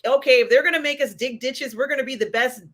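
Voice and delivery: motivating the crew like a foreman; pep talk voice. Retold or imitated. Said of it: "he takes this cool hand Luke approach".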